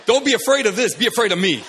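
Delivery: loud, imitated intimidating shout; scary yelling. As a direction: shout her down like a scary mentor. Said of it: "it's scary".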